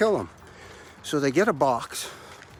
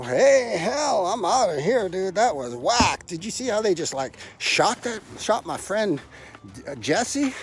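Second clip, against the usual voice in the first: panicked monkey voice; 5 semitones higher, slower than usual. Retold or imitated. Other monkeys voiced fleeing.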